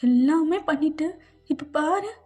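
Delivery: playfully blaming, pitched a little up; mild scolding. Acted. Pregnant wife blaming husband for it, mildly scolding. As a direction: scold him lightly, with an insistent lift.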